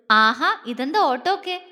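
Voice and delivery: light, amused questioning; playful mild surprise; smiling question. Acted. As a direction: ask with a smile in the voice. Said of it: "ചിരിയോടെ ചോദിച്ചു".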